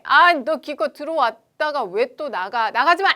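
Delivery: 점점 높고 커지는 짜증; 떠나는 N극에게 성질내듯; 성질내기. Acted. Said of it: "하고 승질을 내야지". (나가는 N극을 붙잡으며 성질냄)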